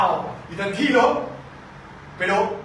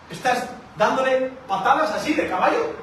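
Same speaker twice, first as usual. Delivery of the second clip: mock pained kicking; 5 semitones higher than usual. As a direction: act out kicking and getting hurt, ham it up. Preacher mimics kicking the goad.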